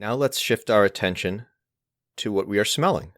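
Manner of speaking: unhurried guided meditation with long pauses; guided mindfulness. Acted. Teacher leading listeners through each of the senses, guided mindfulness. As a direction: guide gently, phrase by phrase, leaving space to notice.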